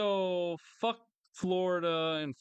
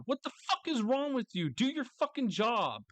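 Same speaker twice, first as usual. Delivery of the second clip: high, incredulous demand; exasperated again; 10 semitones higher than usual. Pretend. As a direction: hit fuck hard. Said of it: "I would say that to God".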